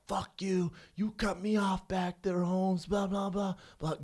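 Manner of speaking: high-pitched mock angry rant; retold yelling. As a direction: imitate an angry driver, dragging the words. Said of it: "He's, like, yelling".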